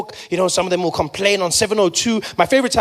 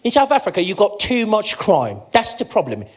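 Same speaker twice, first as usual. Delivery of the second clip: smug lecturer. Retold or imitated.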